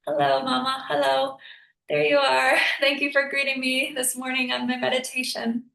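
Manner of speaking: high, gentle coo to the deer; sweet greeting voice. Retold or imitated. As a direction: greet the mama deer like a friend.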